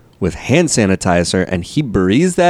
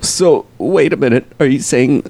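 mock realization; 4 semitones higher than usual. Dawning realization.

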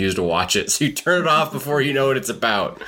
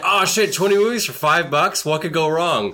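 mock excited; 4 semitones higher than usual. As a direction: voice jumps up, excited. Acting own excited bargain thought.

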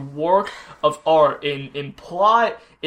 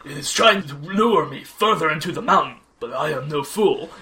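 lofty hero voice; 3 semitones lower than usual. Retold or imitated. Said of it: "voicing Jack's lofty speech".

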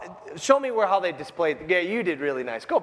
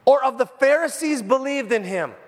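indignant Pharisee; 5 semitones higher, 3 dB louder than usual. Retold or imitated. Pharisees scolding guards.

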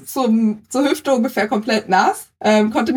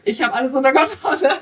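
retold reassurance; 5 semitones higher, faster than usual. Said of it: "und hab gesagt".

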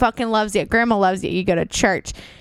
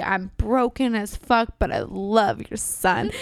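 mock sob story; 5 semitones lower, slower than usual. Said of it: "your sob story".

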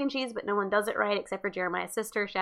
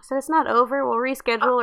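louder, clearer repeat for someone who missed it; 2 semitones higher, 4 dB louder than usual. Real, not acted. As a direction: say it again louder so they hear.

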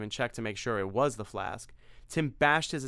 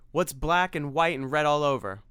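desperate joke; 4 semitones higher, 5 dB louder than usual. Acted. Tim tells a desperate joke.

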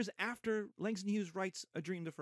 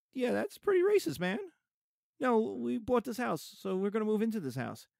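higher, louder, fed-up pushback; indignant retort; 6 semitones higher, 3 dB louder than usual. Retold or imitated. Walter snaps back at the homeowners, indignant and raised. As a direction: call out the racism, exasperated. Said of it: "And they're like".

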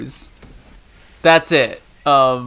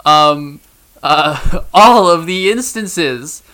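higher, louder boastful creature voice; Thromble voice; 4 semitones higher, 4 dB louder, slower than usual. Acted. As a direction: brag about rhyming and fail. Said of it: "it's a thing that they're like".

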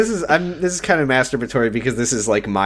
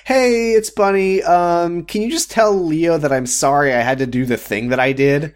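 high, slow airy phone voice; mocking Bunny; 5 semitones higher, slower than usual. Imitating Bunny's phone message, pitched up. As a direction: breeze through it like a flaky caller. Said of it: "what she said on the phone".

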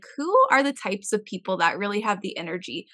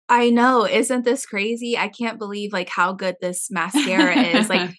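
sarcastic reply. Retold or imitated. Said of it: "she would reply to the comments like".

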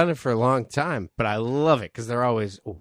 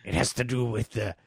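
pirate voice. Pretend. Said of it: "I was just doing the pirate voice".

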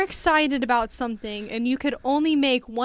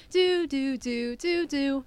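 imitated Windows chime; 2 semitones higher, 4 dB quieter, much slower than usual. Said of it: "the Windows goes".

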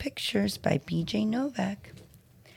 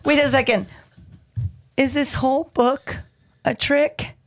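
suspicious surprise; 5 semitones higher, 4 dB louder than usual. Acted. Reader suspects a trick.

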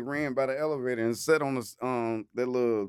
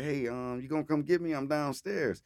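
put-on girl voice; 3 semitones higher, 5 dB quieter than usual. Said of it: "I act like I was a girl".

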